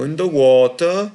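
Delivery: hammed-up Minnesota-style accent; mock Minnesota accent. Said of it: "she almost sounded like one of them".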